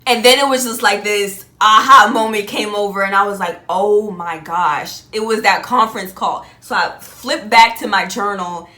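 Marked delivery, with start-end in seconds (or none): 3.7-5.0 drawn-out awed gasp of realization; slow realization. Retold or imitated. Recalling the aha moment about the call, slow and awed. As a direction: let it dawn slowly.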